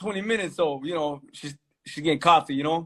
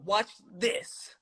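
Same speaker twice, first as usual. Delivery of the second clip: breathy whisper, voice almost gone; whispered aside; 3 semitones higher, 8 dB quieter than usual. Retold or imitated. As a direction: whisper it like a secret plan. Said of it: "I go".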